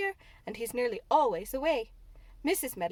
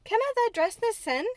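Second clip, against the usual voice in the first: amazed broad Yorkshire, higher and louder; 11 semitones higher, 7 dB louder than usual. A narrator's reading. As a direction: blurt it in thick Yorkshire surprise. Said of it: "She spoke in broad Yorkshire in her amazement".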